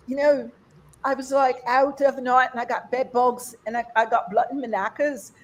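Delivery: imitated British girlfriend; British accent. Comic quoting British friend who can say anything, British accent. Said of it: "she could say anything like".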